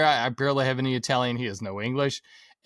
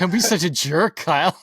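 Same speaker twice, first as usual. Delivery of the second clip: mock scolding; 4 semitones higher, 6 dB louder than usual. Mock scolding the guest, laughing.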